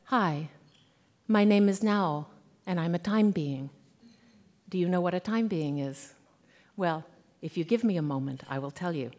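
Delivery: softly voiced schoolgirl, measured, falling away; Japanese schoolgirl. Schoolgirl introducing herself inside the author's head, softly voiced schoolgirl. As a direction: introduce yourself quietly as a schoolgirl, with pauses between phrases. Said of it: "the voice of a young Japanese schoolgirl".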